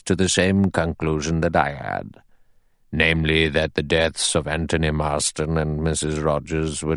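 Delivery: a hint of a grave old judge addressing the men. Narrator voices the judge.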